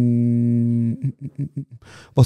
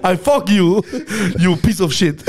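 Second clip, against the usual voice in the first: mock trash talk; 4 semitones higher than usual. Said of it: "online am Schreien".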